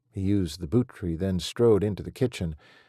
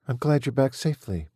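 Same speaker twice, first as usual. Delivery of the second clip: monotone; 7 semitones higher, 3 dB louder than usual. A narrator's reading. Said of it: "she said in a monotone".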